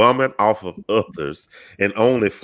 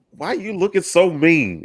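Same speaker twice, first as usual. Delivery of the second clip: imitating a guy calling out, pitched up; a teasing, pitched-up question from a man on the street; mild mock catcall, higher voice; high mock catcaller; 8 semitones higher than usual. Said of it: "some of us guys say".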